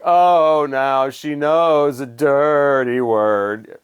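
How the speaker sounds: drawn-out sarcastic shock; mock scandalized. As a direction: draw it out in pretend astonishment. Mock shock at singer's cursing.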